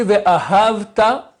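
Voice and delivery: "Ve'ahavta" slowed, with hav accented; stress on middle syllable. Shown as a demonstration. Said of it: "l'accent sur la deuxième syllabe".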